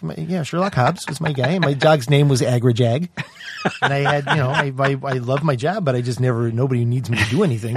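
lightly put-on Midwestern accent; a hint of Midwestern sheriff; Sherlock Hobbs. Shown as a demonstration. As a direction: demonstrate a mild Midwestern character voice. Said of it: "up in a higher register".

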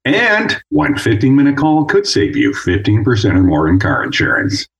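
lightly voiced insurance commercial read; a hint of the TV ad voice, sliding down. Shown as a demonstration. Showing off his commercial work to the host. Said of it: "I have a very strange job".

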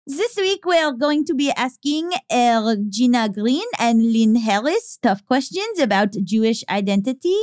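put-on French accent for a show intro. Shown as a demonstration. Co-host showing off for the show rundown, French accent. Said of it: "but I can do French".

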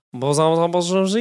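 mumbled mock-French patter; put-on French accent; fake French accent. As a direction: toss off a rough French imitation. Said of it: "fake French accent".

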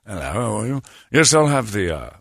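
lightly put-on posh British diner; mock British politeness, understated; regal British accent. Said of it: "they sound regal".

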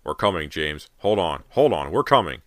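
loud, urgent father calling out; frantic shout. A narrator's reading. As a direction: shout reassurance to a trapped child. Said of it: "her father's frantic shouts".

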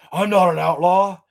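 a hint of a pompous hero, slow at the end; mock grand declaration. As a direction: announce the title grandly. Quoting Nick Cage's character.

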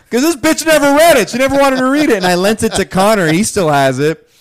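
dishing on the ex, half laughing; animated gossip. Real, not acted. Telling her friend about the ex who never read the book, animated.

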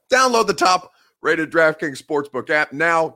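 measured, punched-up radio ad read; sponsor ad read. Acted. Sports host pitching a betting app to viewers, ad read. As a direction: sell it, leaning on the key phrases.

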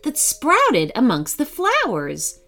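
put-on children's story narration. A narrator's reading. Narrator leads children to a fairy door, storytelling. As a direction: lead young listeners into a magical tale.

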